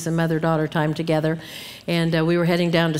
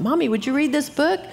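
lightly voiced child, higher pitch; pleading child; 5 semitones higher than usual. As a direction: imitate a child asking Mommy for a story. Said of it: "when my children were growing up".

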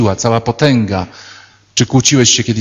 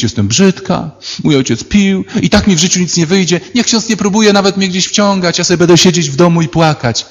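put-on high, whiny excuse-making girl; lightly voiced girl complaining about her life; mock whiny girl; 5 semitones higher than usual. Girl whining excuses to priest. (żartobliwie naśladowana marudząca dziewczyna)

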